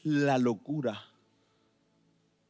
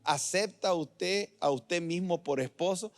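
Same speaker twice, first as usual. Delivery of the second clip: wedding officiant; 3 semitones higher, 4 dB quieter, slower than usual. Acted. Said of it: "Yo me los imagino casando".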